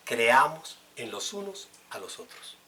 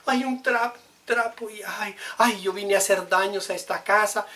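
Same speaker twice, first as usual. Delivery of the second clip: embarrassed guest; 8 semitones higher, 6 dB louder than usual. Retold or imitated. Preacher mimics the embarrassed visitor apologizing, high. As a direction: ham up the guest who broke the glass, high. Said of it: "se preocupa más por el agua derramada".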